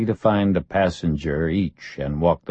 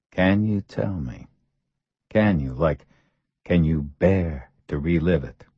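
breathy caring voice. Acted. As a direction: ask it with exaggerated concern. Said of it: "in a breathy voice brimming with care and consideration".

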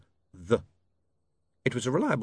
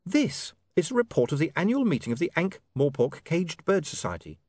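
put-on higher, brisk young woman's voice; 6 semitones higher than usual. A narrator's reading. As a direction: voice her lightly as a young woman. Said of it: "Sacharissa speaking".

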